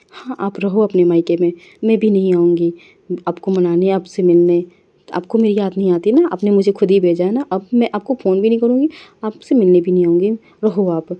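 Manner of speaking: sulky angry rant to herself; angry sulking. Acted. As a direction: throw the words at an absent wife in a huff. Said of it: "बोल के गुस्से में".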